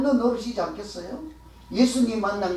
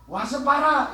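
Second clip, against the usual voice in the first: confident call, pitched higher; bold proclamation; 4 semitones higher, slower than usual. Shown as a demonstration. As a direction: proclaim it boldly as an invitation. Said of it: "이렇게 당당하게 외칠 만한".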